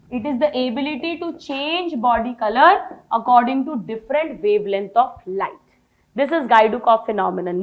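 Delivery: slow, measured reading of a definition; slow dictation. Shown as a demonstration. Teacher reading a definition aloud to students, slow. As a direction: read the definition out slowly.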